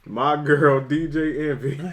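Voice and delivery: slow mock name reading; Webby. Cohost joining the Webby reading joke, slow mock announcing. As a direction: drag the name out, amused. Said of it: "he was killing it".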